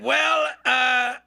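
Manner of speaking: a light Trump impression; imitating Trump. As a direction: Trump greeting the Eagles, lightly voiced. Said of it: "He said".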